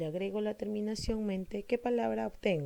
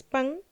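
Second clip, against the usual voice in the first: "pan" pushed higher as the strong syllable; stressed syllable PAN; 6 semitones higher, 6 dB louder than usual. Shown as a demonstration. Teacher picking out the tonic syllable of espanta, stressing "pan". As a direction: punch "pan" out on a raised pitch. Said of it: "tiene una sílaba tónica".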